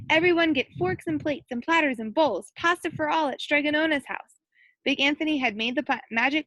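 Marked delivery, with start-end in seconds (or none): 0.1-4.4 announcing shout. Acted. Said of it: "and shouted".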